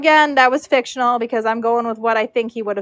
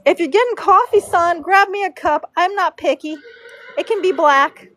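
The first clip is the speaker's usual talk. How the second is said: bossy braider; 4 semitones higher than usual. Retold or imitated.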